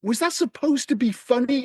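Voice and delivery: a baffled mock question; incredulous. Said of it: "I'm just like".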